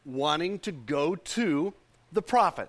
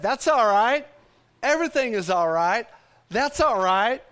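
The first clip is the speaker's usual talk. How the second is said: loud, raised proclamation of faith; emphatic declaration; 5 semitones higher, 6 dB louder than usual. Acted. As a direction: preach it out, high and strong. Preacher proclaims her words of faith.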